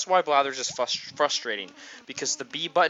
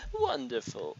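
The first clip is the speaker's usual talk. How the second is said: higher; 12 semitones higher, 5 dB quieter, slower than usual. Pretend. Repeating word, climbing.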